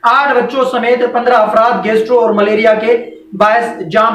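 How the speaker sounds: measured read-aloud from the newspaper; news report reading. Real, not acted. Host reads flood disease report to viewers, formal news reading. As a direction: read it out evenly in formal phrases.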